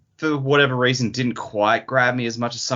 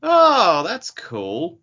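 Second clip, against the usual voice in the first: retold delight; 8 semitones higher, 5 dB louder, much slower than usual. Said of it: "I'm like".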